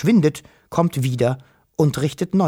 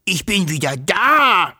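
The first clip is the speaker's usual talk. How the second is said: slow, higher-pitched creature exclamation; astonished dragon; 4 semitones higher, 3 dB louder than usual. A narrator's reading. Dragon astonished to be back, slow raised creature voice. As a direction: swell slowly up to an amazed announcement. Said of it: "fauchte erstaunt".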